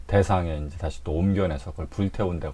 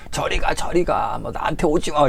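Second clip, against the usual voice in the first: terrified get away; 7 semitones higher, 4 dB louder than usual. Retold or imitated. Patient recoiling from the shaman, high scared plea. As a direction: back away in horror, begging. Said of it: "이럴 거 아니에요".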